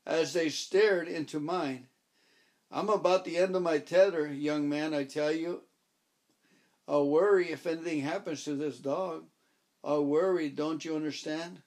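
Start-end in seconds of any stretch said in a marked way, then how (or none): 2.7-11.6 lightly voiced distraught old woman; fretting old woman close to tears; desperate old lady. Mrs Booby at her tether's end.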